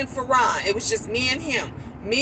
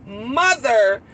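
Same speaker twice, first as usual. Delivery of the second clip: serious. Retold or imitated. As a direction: drop the voice for a grave "Mother". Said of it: "when they call me mother when they serious".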